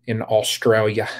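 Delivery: a clumsy Australian twang on Australia, ah-strail-ya; bad Australian accent. Shown as a demonstration. Asking a viewer in Australia, in a bad Australian accent. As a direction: try an Australian accent and miss. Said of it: "That was the worst Australian impression".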